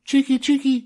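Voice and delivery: very high, loud scolding bird chirp; scolding swallows. A narrator's reading. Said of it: "swoop down from their nests and scold".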